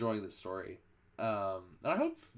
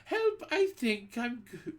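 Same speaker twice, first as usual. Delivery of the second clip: high panicked cry; boy screaming in panic; boy's scream; 12 semitones higher than usual. A narrator's reading. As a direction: cry for help in fright.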